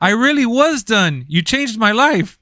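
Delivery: high, slow, earnest squeaky voice; grateful thief. Retold or imitated. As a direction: thank him way up high, slowly.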